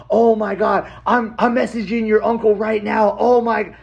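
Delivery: high, gushing retold excitement; excited aunt. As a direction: gush in amazement, pitch climbing as you go. Aunt's overjoyed reply to found relative.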